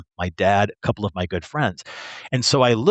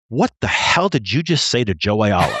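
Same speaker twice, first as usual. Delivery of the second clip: imitating an incredulous, mildly angry instructor; retold mild outrage; almost angry. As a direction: demand an explanation, half laughing. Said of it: "he's almost angry".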